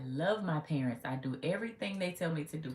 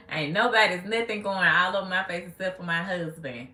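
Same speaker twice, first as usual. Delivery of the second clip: indignant retort; 2 semitones higher, 8 dB louder than usual. Real, not acted. Indignant reply to a commenter.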